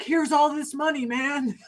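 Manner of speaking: lightly voiced impression of a politician; a hint of a presidential impersonation; Joe Biden. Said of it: "That's a good Biden impersonation".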